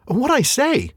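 high, breathless hobbit voice; gasping Bilbo. Acted. Bilbo hung by his hair, a high breathless reply. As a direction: gasp it out while dangling. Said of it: "said Bilbo, gasping".

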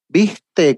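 "¿Viste?" with the Rioplatense sh sound; Argentine "viste". Shown as a demonstration. An Argentine showing how he says "¿Viste?". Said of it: "con el, con la J".

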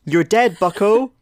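high, loud mock growl; hammed-up gruff hero line; Wolverine voice. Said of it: "Give me your Wolverine voice".

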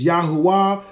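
"Yahuwah" said ya-hoo-WAH; variant pronunciation. Shown as a demonstration. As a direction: say "Yahuwah" in full, ending on an open wah. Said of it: "however you want to pronounce it".

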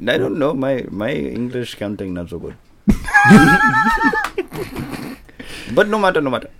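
put-on Indian accent. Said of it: "Indian accent".

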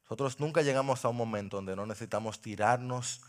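soft, low pastoral appeal; quiet, tender sermon close; intimate altar call. Acted. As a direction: speak gently to each listener.

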